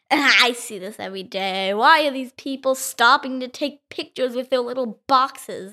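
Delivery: puzzled cow. Acted. Child voices the puzzled cows.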